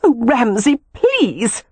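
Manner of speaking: high, heated woman's plea. A narrator's reading. Aroused woman pleads with departing lover, heated. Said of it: "she said heatedly".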